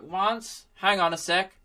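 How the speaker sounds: lightly voiced old man, questioning lift; a hint of a puzzled old-timer; old pensioner. Laptop taking dictation from its owner, lightly voiced old pensioner. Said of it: "this old pensioner Mac dude dictating".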